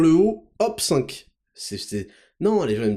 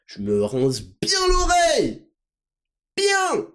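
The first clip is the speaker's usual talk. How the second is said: mock listener; 9 semitones higher, slower than usual.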